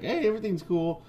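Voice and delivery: high mock-breezy quote; breezy imitation. Reader mimicking Francine in the recap, high and breezy.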